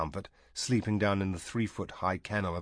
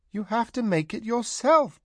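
firm reply; 13 semitones higher than usual. A narrator's reading. Tanar answers the princess.

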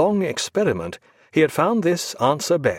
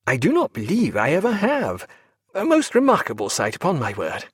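feigned astonishment; 4 semitones higher than usual. Acted. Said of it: "with all the conviction and astonishment".

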